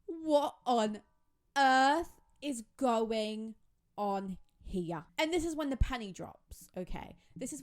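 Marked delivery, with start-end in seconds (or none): 0.0-5.0 louder and slow, stretched-out disbelief; mock bewildered outcry. Vlogger voicing the captive girls confused at Alex, slow bewildered outcry. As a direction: drag out the words in shocked confusion.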